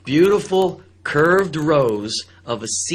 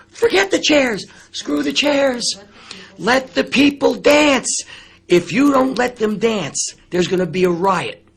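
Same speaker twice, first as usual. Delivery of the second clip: much higher, loud, slow insistence; heated demand; 9 semitones higher, 4 dB louder, slower than usual. Retold or imitated. Host to the club owner, a loud insistent demand. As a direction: hammer it home to the owner.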